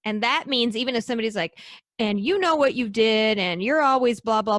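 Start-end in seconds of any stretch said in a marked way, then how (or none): 2.0-4.6 mock ranting accuser. Quoting someone ranting at her.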